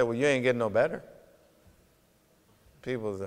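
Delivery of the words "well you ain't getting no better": cold-hearted. Retold or imitated. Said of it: "what if I was just cold-hearted".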